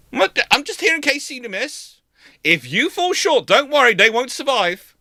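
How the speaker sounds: swagger, just here in case you miss; Walker's cocky voice. Retold or imitated. Walker answers the Black Swans.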